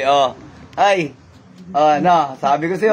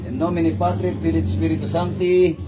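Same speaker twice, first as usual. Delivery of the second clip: dasal sa Latin; 3 semitones higher than usual. Real, not acted. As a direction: intone the blessing over someone. Binibigkas ang dasal sa Latin. (mataas na pabigkas na dasal)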